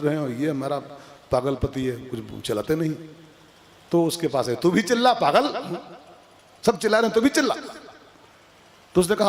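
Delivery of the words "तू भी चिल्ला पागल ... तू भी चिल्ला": nagging wife. Retold or imitated. Nagging wife urges husband to shout.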